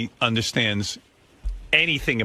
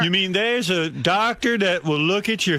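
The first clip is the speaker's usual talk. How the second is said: slow, higher, laughing wonder; mock amazement; 7 semitones higher, slower than usual. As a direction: act amazed, like seeing fire for the first time. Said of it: "Richard's like".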